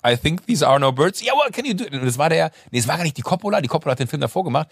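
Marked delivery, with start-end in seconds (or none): 0.1-1.2 slow line delivery. Shown as a demonstration. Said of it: "auf diesem Parking Lot". 1.2-1.8 high director reply. Retold or imitated. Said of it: "director reaction".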